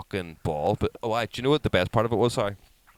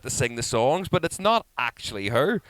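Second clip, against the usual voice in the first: loud, high incredulous protest; exasperated; 8 semitones higher, 10 dB louder than usual. Retold or imitated. Dad setting fans straight about a tribute act, exasperated.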